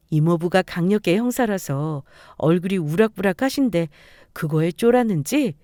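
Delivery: plain reading voice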